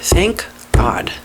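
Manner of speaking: breathless whisper of thanks; whispered relief. Real, not acted. Relieved she avoided a bad home, whispering. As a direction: whisper it like a secret prayer. Relief after dodging the house.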